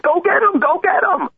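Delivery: very high jeering chant; egging on. Retold or imitated. Host imitating bus crowd cheering the thug, high jeering. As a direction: cheer him into the fight. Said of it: "were like".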